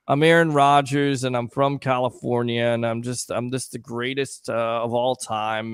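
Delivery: droning mockery of a self-satisfied quarterback; monotone Aaron Rodgers.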